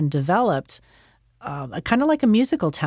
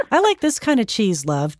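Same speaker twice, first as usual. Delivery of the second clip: mother's remark in a higher lilt, dropping on "love"; imitating her mother; 5 semitones higher than usual. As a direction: lightly put on mom's voice, pitched up. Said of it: "Just the way she said it in her voice".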